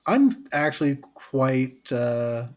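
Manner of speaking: high, bright rising excitement; excited. Real, not acted. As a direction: let the excitement burst through. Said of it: "excited for this".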